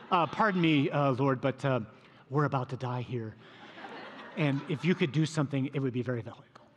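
overly courteous request, lightly played; mock polite. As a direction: pretend it's a calm, polite favour. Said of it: "Do you think that's how they said that to him?".

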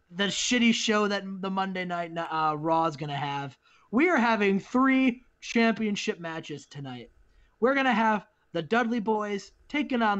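lightly hyped show-runner's promo; wrestling promo. Acted. Hyping tonight's card to the audience, promo delivery. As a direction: pitch the card with punched match names. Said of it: "And that's the promo".

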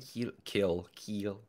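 kiel, kiel, said syllable by syllable; sounding it out. Shown as a demonstration. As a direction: test kiel like keel. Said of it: "I just say keel".

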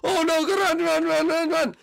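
high, loud mock panic; panicked run. Fleeing player squeals at himself to run away. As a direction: squeal it as you flee in a hammed-up panic.

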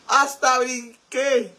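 very slow, high-pitched aftershock of a scare; startled. Real, not acted. Streamer telling viewers she jumped, startled. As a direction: stretch it out, still rattled. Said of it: "me espanté".

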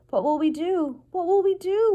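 high, loud despairing wail. A narrator's reading. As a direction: wail it helplessly, pitch climbing. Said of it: "wailed Cook".

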